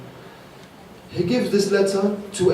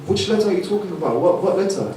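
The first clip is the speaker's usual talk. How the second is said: feigned ignorance. Retold or imitated. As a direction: act as if you know nothing. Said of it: "She's acting as if there's no letter".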